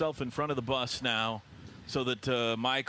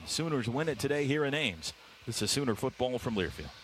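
upbeat promo read, raised pitch; radio announcer read; 2 semitones higher than usual. Acted. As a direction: sell it like a station ID. Station promos read on air.

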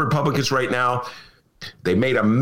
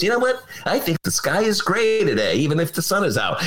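mock mayor; 5 semitones higher than usual. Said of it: "Mayor Daley wakes up and goes".

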